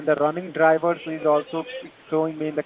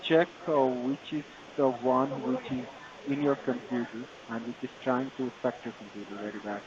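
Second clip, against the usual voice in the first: Indian call center. Real, not acted. Tech support scam call agent.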